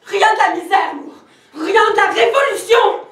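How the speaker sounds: éclat fâché. Acted. Dispute avec le fils.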